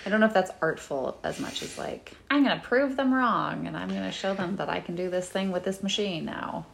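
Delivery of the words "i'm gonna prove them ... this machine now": lightly voiced boastful director; a hint of a determined filmmaker out to prove doubters wrong; James Cameron. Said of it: "That's my James Cameron voice".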